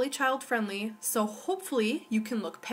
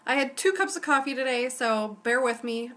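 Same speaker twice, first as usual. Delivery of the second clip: jazzed; 2 semitones higher than usual. Real, not acted. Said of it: "I'm very jazzed".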